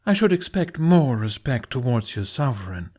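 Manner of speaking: lightly hammed-up posh English accent; pompous posh English royal. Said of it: "posh accent fully in place".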